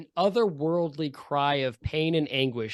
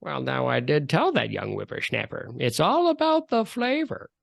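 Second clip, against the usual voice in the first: spectral cold voice. Acted. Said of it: "spectral, cold voice say".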